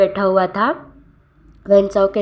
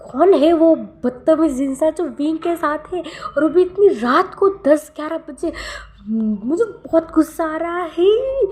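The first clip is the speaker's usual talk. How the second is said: much higher, strained voice of jealous fury; rant, winding up higher in anger; jealous rage; 8 semitones higher than usual. Acted. Wang on the sofa, furious at the stranger in Wing's house. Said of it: "वांग जी का गुस्सा था high level पे".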